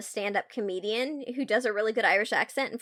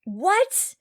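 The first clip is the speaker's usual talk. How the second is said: general reactions; 6 semitones higher, 6 dB louder, much slower than usual. Shown as a demonstration. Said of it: "do some general reactions right now".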